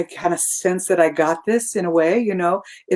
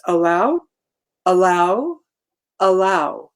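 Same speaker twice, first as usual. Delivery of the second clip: calm mantra; slower than usual. Shown as a demonstration. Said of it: "that's my little mantra".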